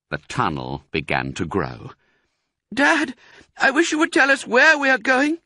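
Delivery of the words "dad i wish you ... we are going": put-on high, loud pleading child; a cub nagging its dad; curious fox cub. A narrator's reading. Fox cub to father, high curious voice.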